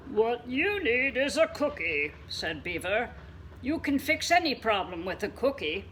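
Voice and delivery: confident beaver. Acted.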